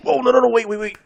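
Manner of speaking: high, loud burst of oh no wait; oh no, I forgot something; sudden realization. Real, not acted. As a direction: cut yourself off as it hits you. Suddenly remembering, stopping the story.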